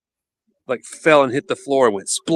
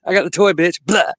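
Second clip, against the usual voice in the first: taunting dog voice; 6 semitones higher, 4 dB louder than usual. Pretend. Voicing the dog Winston.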